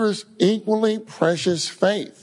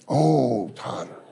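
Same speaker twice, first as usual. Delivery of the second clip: soft longing call; 6 semitones lower, slower than usual. Shown as a demonstration.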